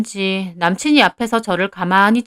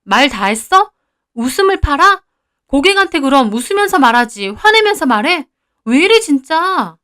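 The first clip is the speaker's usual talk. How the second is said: rising, indignant comeback, louder and higher; angry retort; 4 semitones higher, 3 dB louder than usual. Acted. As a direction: fire back at the boyfriend in disbelief. Fight with boyfriend over her job.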